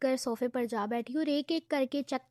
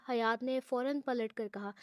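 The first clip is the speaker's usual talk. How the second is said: ordinary delivery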